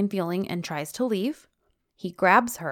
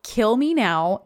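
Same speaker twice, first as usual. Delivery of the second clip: mock despair; 3 semitones higher, 5 dB louder, slower than usual. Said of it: "And I wrote".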